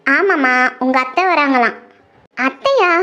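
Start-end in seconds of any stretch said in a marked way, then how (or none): 2.5-2.9 surprised. Acted. Surprised at aunt's visit.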